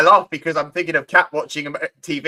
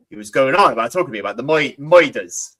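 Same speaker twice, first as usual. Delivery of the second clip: put-on British accent leaking through on moiders; slipping American accent; 5 semitones lower than usual. Imitating the actor's slip on murders, British accent leaking out. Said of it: "slips out of his American accent and goes".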